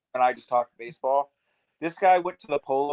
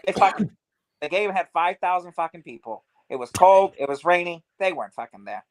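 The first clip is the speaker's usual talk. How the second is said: put-on Boston accent; 4 semitones higher than usual. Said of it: "a super thick Boston accent".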